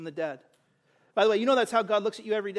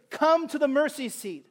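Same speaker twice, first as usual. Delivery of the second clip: ringing call; 5 semitones higher than usual. Acted. Preacher inviting unbelievers forward, ringing call. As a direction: call "come to the mercy seat" across the room, leaning on "come".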